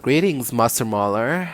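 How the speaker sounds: lightly voiced woman's greeting, no German accent; a hint of a sultry woman; Von Karma. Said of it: "do the Von Karma voice, but without the German accent".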